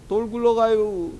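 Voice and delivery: leisurely, held-out mock shout without volume; slow mock warning. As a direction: warn of danger far too slowly. Imitating someone warning of rolling rock.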